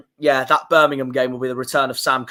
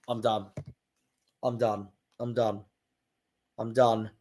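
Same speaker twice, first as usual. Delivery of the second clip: much softer, lower, resigned mutter; defeated; 5 semitones lower, 10 dB quieter than usual. Real, not acted. Fan giving up on the fixture list, quiet and defeated. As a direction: give up, barely audible.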